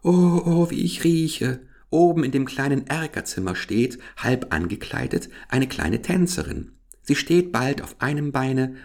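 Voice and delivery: high, self-admiring flower voice; vain lily. Acted. The lily gushes about the dancer in a high, self-admiring voice. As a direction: gush over the little dancer. Lily tells her story.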